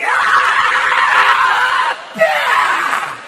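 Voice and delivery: very high airy squeal of release; falsetto climax scream. Acted. Finally coming after an hour, high squeal. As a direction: shriek it like a finish line. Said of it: "it's like".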